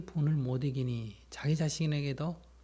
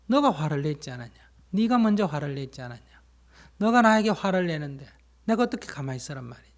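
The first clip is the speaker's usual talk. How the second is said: louder, mock-indignant comeback, speeding up at the end; angry retort; 6 dB louder, faster than usual. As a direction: throw it back at him like a sulky counterattack. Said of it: "왜 화가 나느냐 물으면". (화난 듯 따지는 흉내)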